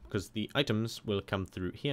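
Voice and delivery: flat, even robot voice. Real, not acted. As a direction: talk like a robot. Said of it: "I'm talking like a robot".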